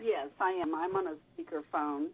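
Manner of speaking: echoey speakerphone voice. Real, not acted. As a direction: call from a distant speakerphone. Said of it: "You're a little echoey".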